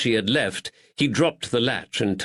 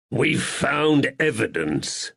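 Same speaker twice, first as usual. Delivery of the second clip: growled; 5 semitones higher, slower than usual. Acted. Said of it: "Woods growled".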